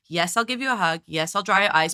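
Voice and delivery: mildly voiced calm parental reassurance; calm, chill tone. Commentator voicing a mother to her crying son, calm and chill. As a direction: imitate an unruffled, available mother. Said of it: "this calm, chill tone".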